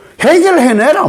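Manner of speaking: high-pitched angry yell.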